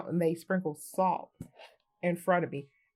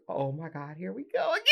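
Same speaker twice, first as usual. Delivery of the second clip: laughing dread; 2 semitones lower than usual. Retold or imitated. Dread as car slides again.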